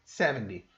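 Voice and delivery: seventy as SEVEN-DEE; low seventy with D in place of T. Shown as a demonstration. Teacher recalling the regional form, seventy with a D. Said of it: "eles fazem com som de D".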